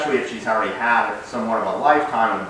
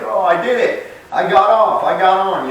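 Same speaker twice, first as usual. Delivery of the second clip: proud puppy voice; 9 semitones higher, 6 dB louder than usual. Retold or imitated. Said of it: "she's like".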